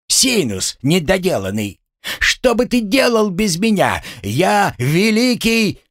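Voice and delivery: high, ranting indignation; furious boasting. Acted. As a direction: rant high, stretching out the final boast. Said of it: "Гремлун яростно засучил ногами". (яростно, высоким голосом, с растяжкой)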